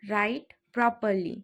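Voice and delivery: slow, careful repeat for learners; drawn-out teaching repeat. Shown as a demonstration. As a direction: stretch each word out clearly. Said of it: "teacher repeats phrase twice".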